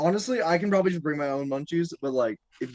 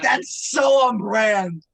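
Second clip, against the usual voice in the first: laughing shout; 4 semitones higher, 5 dB louder, much slower than usual. Retold or imitated. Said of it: "I'm like".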